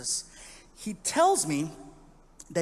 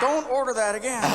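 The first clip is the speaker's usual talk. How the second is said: put-on Australian accent; 6 semitones higher, 4 dB louder than usual. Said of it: "Bartender looked at me".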